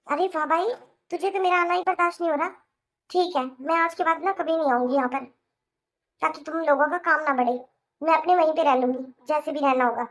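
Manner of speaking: mildly heated sibling outburst. Acted. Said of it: "आप इतनी जोर जोर से क्यों बोल रहे हो".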